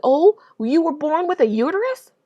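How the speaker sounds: sarcastic retort. Retold or imitated. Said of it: "And I said".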